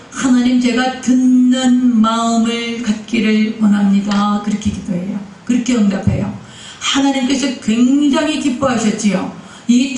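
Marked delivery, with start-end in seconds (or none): 0.1-4.4 slow, drawn-out petition to God; Solomon's prayer. Retold or imitated. Solomon asks God for a listening heart, slow prayer. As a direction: voice Solomon praying, word by word, slowly. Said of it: "솔로몬이 뭐라 그래요?".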